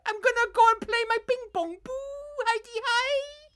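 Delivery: a bad Ted Bovis shouting at campers; bad Ted Bovis impression. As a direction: shout it out like a cheesy camp entertainer. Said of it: "Can't do that one".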